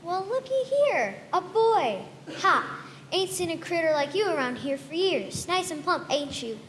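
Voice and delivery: lightly voiced old woman, sweetly sizing him up; a hint of a scheming old woman; sly old lady. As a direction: size up the plump boy with relish. Old lady sizes up the boy.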